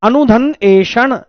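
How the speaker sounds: अनुधन एषण said slowly, parts apart; slow sandhi breakdown; split into parts. Shown as a demonstration. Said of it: "अन्वेषण".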